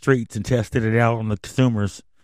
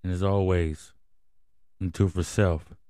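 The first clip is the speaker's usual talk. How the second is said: soft, choked-up goodbye; quiet emotional farewell to listeners; heartfelt sign-off; 3 semitones lower, 5 dB quieter than usual. Real, not acted. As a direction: hold back the emotion as you sign off. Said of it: "to not get very emotional on this microphone".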